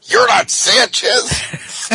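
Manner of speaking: high, loud exasperated yell; angry shout. Retold or imitated. Booking cop yelling at the prankster, high and loud. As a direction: blow up at the trickster.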